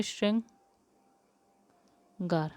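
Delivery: श्रृंगार drawn out very slowly, each syllable stretched; spelled-out pronunciation. Shown as a demonstration. Teacher showing students how श्रृंगार is written, very slow. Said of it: "श्रृंगार कैसे लिखते हैं?".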